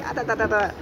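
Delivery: put-on a quick, light parody of a thick Essex accent; sister's Essex chatter, lightly imitated; mock thick Essex accent. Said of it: "like, the thickest Essex accent".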